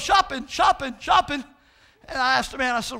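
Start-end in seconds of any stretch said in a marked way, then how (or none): 0.0-1.4 lightly voiced parrot repeating; a hint of parrot squawk. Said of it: "He goes".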